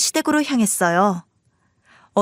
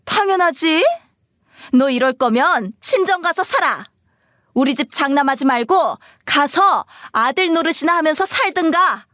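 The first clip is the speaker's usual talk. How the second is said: high-pitched, spiteful scolding; domineering mother; 5 semitones higher than usual. Acted. Mother telling son to go live with in-laws, domineering. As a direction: lay down the law to your son.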